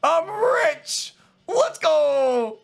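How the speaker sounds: screaming with joy, very high and loud; drawn-out, euphoric yelling; ecstatic celebration. Real, not acted. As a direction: shriek in triumph over a jackpot. Celebrates a huge loot drop.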